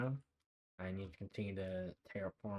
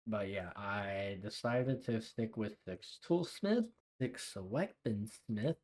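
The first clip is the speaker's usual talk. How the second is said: lisping S with retainers in; wearing a retainer; slower than usual. Real, not acted. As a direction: talk around retainers in the mouth. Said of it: "me saying S is, like, really hard with my retainers in".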